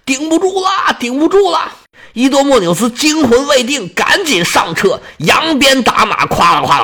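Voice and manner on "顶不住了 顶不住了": high, urgent shout to retreat; panicked shout. Acted. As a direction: yell at the king to run, higher. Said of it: "冲着伊多莫纽斯大喊呢". (惊慌地高声大喊)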